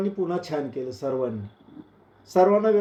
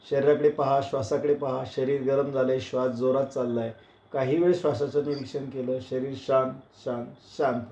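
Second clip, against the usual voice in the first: calm, lower meditative voice; guided relaxation; 3 semitones lower, 3 dB quieter than usual. Acted. Yoga teacher guides students to observe the body, calm and low. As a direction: ease the class into stillness, softening on the last words.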